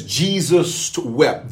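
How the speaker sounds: drawn out slowly, pausing on Jesus; slow scripture reading. Shown as a demonstration. Pastor quoting the shortest verse to viewers, slow and weighty. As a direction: let "Jesus wept" hang, very slowly. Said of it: "It says".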